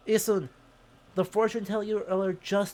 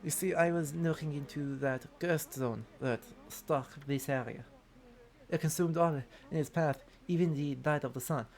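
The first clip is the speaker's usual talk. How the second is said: put-on worst French accent. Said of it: "do the worst French accent humanly possible".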